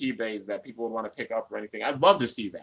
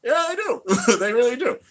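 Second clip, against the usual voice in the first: high put-on voice; 12 semitones higher, 8 dB louder than usual. High loud put-on voice opening.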